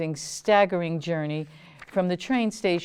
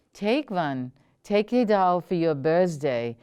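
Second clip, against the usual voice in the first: smiling offer. Acted. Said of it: "she smiled".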